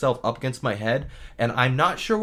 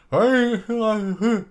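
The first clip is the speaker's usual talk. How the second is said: loud raised hey; high call out; 9 semitones higher, 4 dB louder than usual. Retold or imitated. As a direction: call out sharply. Retold call out.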